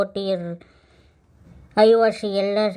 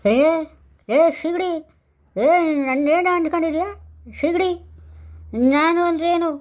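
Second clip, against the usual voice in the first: tipsy, raised, fast threats at the wife; drunk bluster. Acted. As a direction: swagger like a drunk picking a fight.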